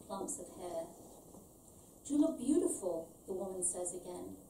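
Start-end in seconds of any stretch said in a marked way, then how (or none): 2.1-3.1 higher, louder Scarface gangster compliment; Al Pacino voice. A narrator's reading. The woman repeats her compliment to Ellen, Pacino-style. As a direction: give it the full Pacino-in-Scarface growl. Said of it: "She speaks like Al Pacino in Scarface".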